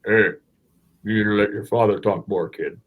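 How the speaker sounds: light imitation of a big French accent; a lightly voiced giant with a French accent, teasing a kid. Giant tells the boy to let his father talk, in a lightly put-on French accent. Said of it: "in this just big French accent".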